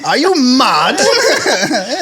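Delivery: put-on high, drawn-out laughing British accent; mock British accent. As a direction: ham up a Brit asking are you mad. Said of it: "give me something".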